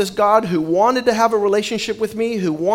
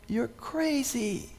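scoffing; 2 semitones higher, 11 dB quieter, much slower than usual. Retold or imitated. Telling the woman she's crazy.

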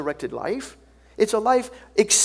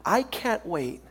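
drawn-out, measured eagerness; enthusiastic; 2 semitones lower, 3 dB quieter, slower than usual. Acted. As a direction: let the eagerness stretch the words. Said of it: "this is enthusiasm".

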